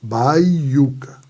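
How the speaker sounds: baiuca broken into bai, uca; syllable split. Shown as a demonstration. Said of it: "tá aqui minha sílaba".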